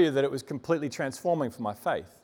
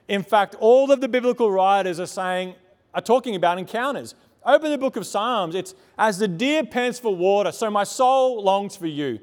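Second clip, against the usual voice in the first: louder, higher preaching voice, easing toward the end; impassioned preaching; 4 semitones higher, 5 dB louder than usual. Real, not acted. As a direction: preach it with rising urgency, phrase by phrase. Preaches with raised intensity.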